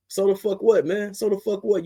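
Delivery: high, exasperated so the fuck what; exasperated outburst. Real, not acted. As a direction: toss it back at him in disbelief. Heated rant at hater.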